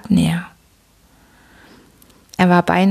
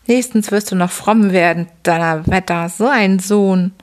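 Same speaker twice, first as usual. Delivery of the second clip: a lightly raised, mocking drunken father voice; gruff old father. Father scolds after reading.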